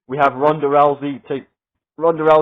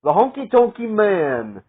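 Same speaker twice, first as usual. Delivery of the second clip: slow, higher mock Santino way of saying "The Honky Tonky Man"; Santino impression; 6 semitones higher, slower than usual. Lightly imitating Santino on the Honky Tonk Man record. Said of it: "as the Santino would say".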